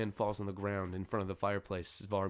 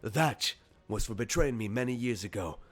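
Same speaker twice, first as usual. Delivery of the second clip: louder, punched-out reproach; angry reproach; 3 semitones higher, 6 dB louder, slower than usual. Acted. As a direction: land the first word like a blow. Varomir punches as he speaks.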